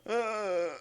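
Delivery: a mock yawn groan; yawny voice groan. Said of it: "makes your voice sound really deep".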